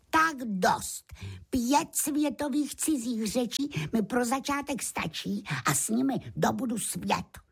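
high, confident lamb voice; determined little lamb. A narrator's reading. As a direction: declare it high, like a small conqueror. Beránek se rozhodl dobýt svět. (odhodlaný vysoký hlásek beránka)

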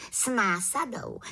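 the small witch firmly choosing; little witch. Acted. The little witch answers the shopkeeper, high and decided.

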